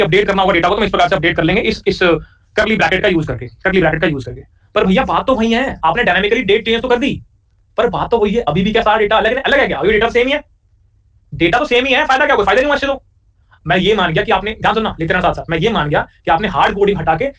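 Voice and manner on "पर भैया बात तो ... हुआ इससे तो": doubting student. Acted. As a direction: play a puzzled student pushing back on the teacher. Student objects to teacher.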